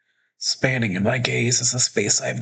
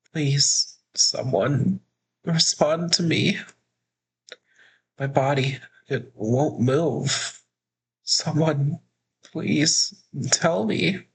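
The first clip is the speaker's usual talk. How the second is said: fearful quiet plea; 4 semitones higher, slower than usual. Acted. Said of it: "my voice naturally gets smaller".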